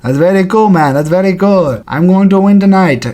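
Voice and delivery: unbothered fighter, lightly imitated; amused impression of a nice-guy fighter. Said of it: "And George will be like".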